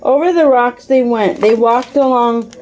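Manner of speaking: put-on steady read-aloud voice for a child; calm parent reading a mystery book aloud; story narration. A narrator's reading. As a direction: read the chapter like a bedtime story.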